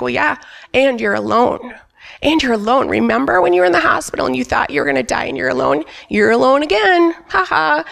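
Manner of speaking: taunting enemy voice. Retold or imitated. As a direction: sneer at her as the devil would.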